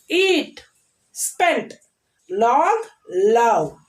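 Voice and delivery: one word at a time, with gaps; read-aloud word drill. Shown as a demonstration. Teacher modelling one syllable words for children, read-aloud drill. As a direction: say each word separately and clearly. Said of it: "listen and say aloud words".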